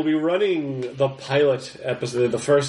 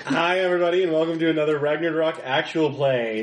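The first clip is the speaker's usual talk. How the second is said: show-opener hype. Real, not acted. Host's show intro, rallying the catchphrase.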